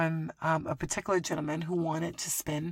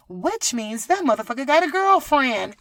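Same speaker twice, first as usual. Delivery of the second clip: shouting; 5 semitones higher, 10 dB louder than usual. Real, not acted. Realizing he has a girlfriend.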